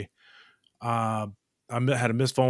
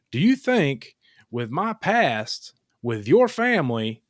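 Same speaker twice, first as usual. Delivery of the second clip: rising, louder, slow indignant challenge; heated rebuke; 9 semitones higher, 5 dB louder than usual. Retold or imitated. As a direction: call him out, incredulous. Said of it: "retold heated reply to Randy".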